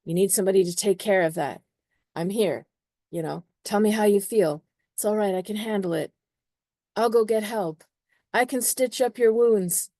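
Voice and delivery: smother them with eager care; mock fussing nurse, building up; fussing caretaker. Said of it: "Mars and Cancer, believe".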